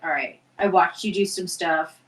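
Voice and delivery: a touch of settled composure, retelling him; calmed down. Retold or imitated. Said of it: "who calmed down".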